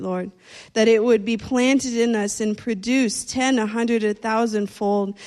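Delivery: earnest spoken prayer to the Lord; a gentle pastor's prayer before the message. Acted. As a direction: pray over the congregation, sincere and steady. Leads a prayer.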